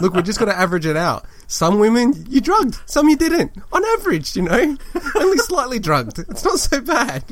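high, hammed-up smarmy lawyer; mock lawyer voice. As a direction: argue it like a slick defence lawyer. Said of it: "And I'll be like".

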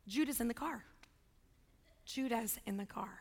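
low, hushed dread played for laughs; dawning realization. Real, not acted. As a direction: drop softly as it sinks in. Dawning realization about other child.

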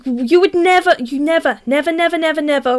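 NEVER hammered over and over, starting high and stepping down; emphatic repetition. Real, not acted. Former scout objecting to white in the bush, emphatic repeated NEVER. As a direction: hit each "never" with scandalised insistence.

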